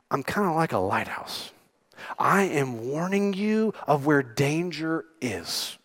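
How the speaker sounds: quiet tender voicing of Jesus; hushed. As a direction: lean in and speak it softly as a gentle warning.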